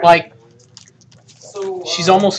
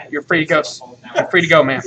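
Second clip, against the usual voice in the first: quiet release; 7 semitones lower, 7 dB quieter, faster than usual. Acted. Deputy quietly releasing woman.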